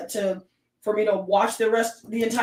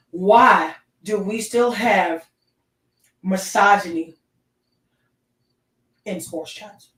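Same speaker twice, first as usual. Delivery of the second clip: slow indignant rant; 4 dB louder, slower than usual. Real, not acted. Ranting about misogyny in chats.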